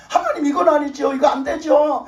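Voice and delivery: loud desperate shout of prayer; crying out to God. Retold or imitated. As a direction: shout the plea upward.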